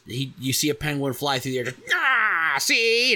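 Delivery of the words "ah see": loud, high gangster shout; mobster voice. Pretend. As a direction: bark it like a movie mobster. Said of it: "A little bit of mobster in there".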